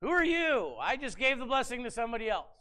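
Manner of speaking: put-on old father caught off guard, mild alarm; startled Isaac. Blind father realizing the trick, mildly alarmed.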